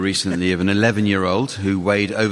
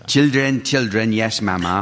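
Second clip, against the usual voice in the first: lilting attempt at an Antiguan accent; put-on Antiguan accent. Host reciting a children's rhyme from Antigua, Antiguan accent. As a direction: recite it in Caribbean English. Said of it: "you all right, Jack?".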